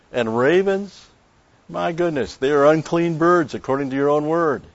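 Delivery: high, heated objection to the Lord; indignant protest. Pretend. Prophet arguing with the Lord over ravens, indignant and high.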